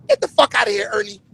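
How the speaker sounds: soft, timid nerd delivery fading out; nerdy voice. Retold or imitated. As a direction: say it like a meek nerd. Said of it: "like a nerd".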